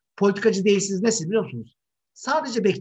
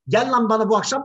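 rude slang invitation; 4 semitones higher, 3 dB louder than usual. Retold or imitated. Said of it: "biraz argo konuşuyorum".

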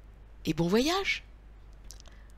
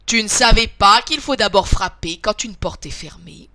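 louder, lightly voiced big-bear scolding; big bear calling out; 8 dB louder than usual. A narrator's reading. Big bear calls after the fleeing girl, mild scolding big voice. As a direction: call it out firmly as the big bear. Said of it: "de sa grosse voix lui crie".

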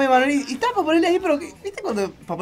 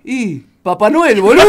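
slow, louder, drawn-out stoned answer; dazed Santa; 9 dB louder than usual. Retold or imitated. Drugged Santa answering the comic's question, slow and dazed. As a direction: drag every word out like a dazed Santa.

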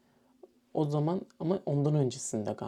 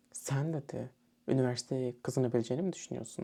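scornful teacher quote; faster than usual. Retold or imitated. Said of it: "Bu şekilde".

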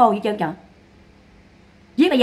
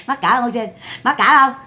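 laughing taunt; 3 semitones higher than usual. Real, not acted. Streamer asking Ô Xuyên if she's ashamed, laughing taunt. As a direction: tease through real laughter.

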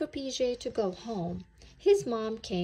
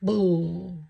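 monster boo; 7 dB louder than usual. A narrator's reading. Monster in the movie.

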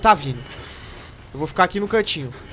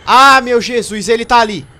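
frightened cry; 5 semitones higher, 10 dB louder than usual. Real, not acted. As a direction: gasp it out in fear. Sees the monster nearby.

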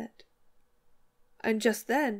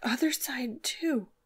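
urgent outcry, louder then falling to slow breathiness; crying out in horror; 3 semitones higher, 4 dB louder than usual. A narrator's reading. Missus Hale shows the bird's neck, horrified cry. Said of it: "cried Missus Hale".

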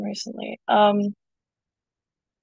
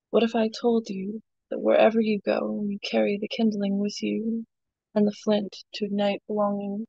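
poem reading. Acted. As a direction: read it like a spoken word poem. Reads her poem aloud.

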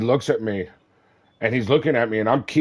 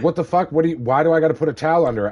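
son's shocked protest; 4 semitones higher, much faster than usual. Retold or imitated. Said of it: "He was like".

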